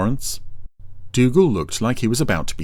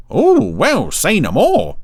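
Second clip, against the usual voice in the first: much higher, louder, loaded insinuation; imply far more than you say; knowing; 10 semitones higher, 6 dB louder, slower than usual. A narrator's reading. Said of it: "in a tone of voice that suggested he had a great deal more to say".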